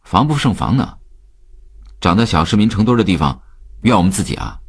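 defiant youngster answering back; talking back. Acted. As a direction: throw your father's words back at him. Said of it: "楠楠顶了他一句".

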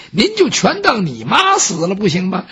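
suggesting. Acted. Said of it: "杨忠说".

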